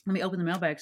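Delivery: talking while chewing; words round a mouthful of candy; mouth full. Real, not acted. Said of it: "Too busy chewing here".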